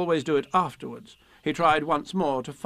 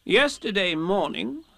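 slow, higher-pitched solemn announcement; solemn rabbit; 5 semitones higher, slower than usual. Acted. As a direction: open a grave report as Rabbit. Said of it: "said Rabbit solemnly".

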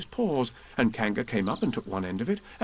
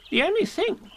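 fussy Rabbit; 3 dB louder than usual. Acted. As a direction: ponder it pompously.

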